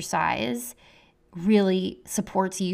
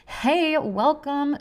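excited; 8 semitones higher, 3 dB louder, much slower than usual. Real, not acted. Greeting new listeners.

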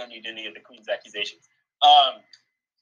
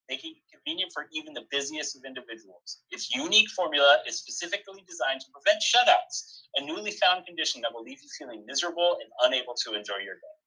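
upbeat pharmaceutical commercial pitch; mock ad read; 6 semitones higher, 5 dB louder than usual. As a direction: sell it like a spoof drug ad. Reads a mock sponsor ad.

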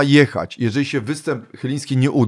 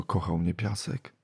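dreamy fan; 4 semitones lower, 11 dB quieter, slower than usual. Retold or imitated. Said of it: "przychodzi dziewczyna".

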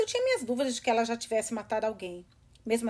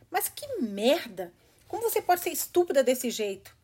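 angry; 3 semitones higher, 3 dB louder than usual. Acted. Angry outburst at Mizuki.

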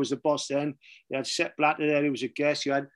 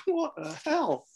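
disbelief; 11 semitones higher, 3 dB quieter, slower than usual. Retold or imitated. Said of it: "I'm like".

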